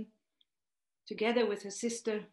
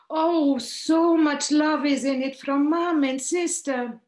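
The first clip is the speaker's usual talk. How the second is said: higher and louder, overflowing with emotion; retold heartfelt exclamation, raised and loud; deeply moved; 6 semitones higher, 8 dB louder than usual. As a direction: let the gratitude spill out, near tears. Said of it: "It moves me deeply and tears appear".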